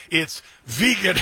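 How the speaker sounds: "vegan" drawn out as VEE-gun; slow down and say "vegan" with a long EE; corrected vegan. Retold or imitated. Host plays wife correcting the President, "vegan" as VEE-gun. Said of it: "Please pronounce that word properly".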